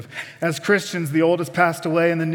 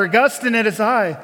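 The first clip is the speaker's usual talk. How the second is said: calling out louder and higher; louder mock yell; 4 semitones higher, 3 dB louder than usual. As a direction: raise it to reach him across the square. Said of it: "I'll yell a little louder".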